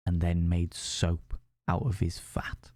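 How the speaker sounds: hushed whisper for the grim twist; whispered reveal. A narrator's reading. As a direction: drop to a spooky whisper on the reveal. Spooky reveal of ghost story.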